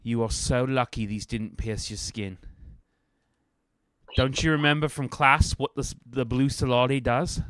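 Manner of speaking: lightly voiced scolding teacher; a quick, gentle telling-off. Rosie scolds the students.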